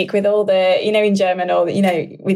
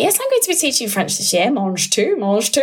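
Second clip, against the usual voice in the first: imitating the teacher; 3 semitones higher than usual. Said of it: "the teacher did say when she's like".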